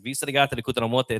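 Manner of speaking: lightly done Hispanic accent; mock Hispanic accent. Shown as a demonstration. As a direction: fake Spanish gibberish in a Hispanic accent. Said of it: "that was my Hispanic accent".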